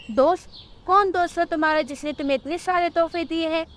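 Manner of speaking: mother grilling her daughter, fast; alarmed mother. Acted. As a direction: fire the questions quickly. Mother demands quickly.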